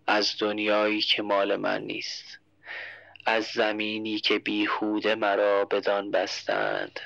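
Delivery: slow, low, fading verse; slow, low, weak recitation; dying poem recital. Acted. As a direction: recite it as if life drains away.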